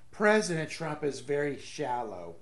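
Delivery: mock-serious quote, near laughing; barely straight face. Host retrying the politician's quote, mock serious. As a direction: repeat her line, holding the laugh in. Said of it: "can't even say it with a straight face".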